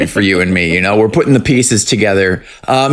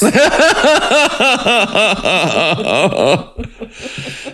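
rising giggle; high laughter; 11 semitones higher than usual. Real, not acted. Host laughing at her co-host's joke, high giggle.

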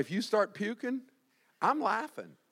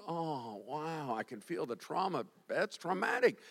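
soft, mock sympathetic hush; mock sympathy; 3 semitones lower, 6 dB quieter than usual. Preacher mocking compassionate listeners, soft hushed sympathy. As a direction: sigh it out, overly tender. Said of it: "Those that have the gift are going".

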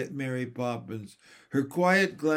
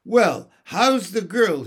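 high, slow cheeky question; starling teasing Mary Poppins, cheeky; 6 semitones higher, 9 dB louder than usual. A narrator's reading. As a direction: tease her with a sly question. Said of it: "he inquired cheekily".

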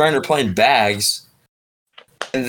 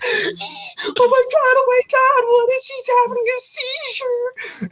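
frantic sister. Retold or imitated. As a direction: rattle it off fast in alarm. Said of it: "my sister starts flipping out".

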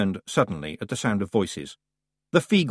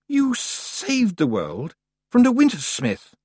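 high, slow goddess voice; lofty summer goddess, drawn out; Summer Lady voice; 12 semitones higher, 3 dB louder, slower than usual. Acted. Summer Lady's voice, higher, slow.

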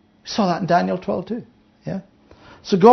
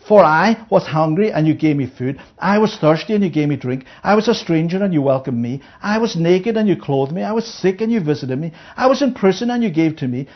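lowered voice, leaning on each line; weighty stressed recitation of each line; emphasis on these words; 6 semitones lower than usual. Shown as a demonstration. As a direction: press every I was phrase. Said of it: "I put some emphasis on these words".

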